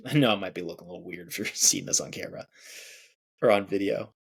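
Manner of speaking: quick laughing aside. Real, not acted. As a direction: laugh it off, a bit embarrassed. Laughs at looking weird.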